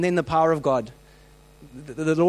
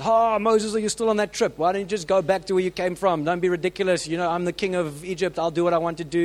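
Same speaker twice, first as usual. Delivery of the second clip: mocking Pharaoh; 2 semitones higher than usual. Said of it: "Pharaoh laughs back and says".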